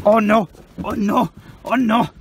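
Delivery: loud, high oh no; dramatic dismay. Real, not acted. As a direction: wail it in mock despair. Reacting to rain.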